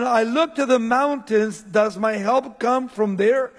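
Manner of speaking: preacher voicing the psalmist's question. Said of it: "He's asking the question".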